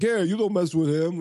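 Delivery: high, hammed-up French accent. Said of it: "replace ... accents with French accents".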